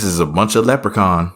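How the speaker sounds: ordinary talk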